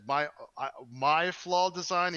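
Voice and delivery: arrogant indignation. Acted. Inventor answering Abel about his design, arrogant and affronted. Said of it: "this guy's a little bit arrogant".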